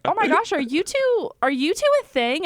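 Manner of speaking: high, loud excited gasp of a question; gushing fan. Retold or imitated. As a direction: squeal it like a thrilled audience member. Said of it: "And she was like".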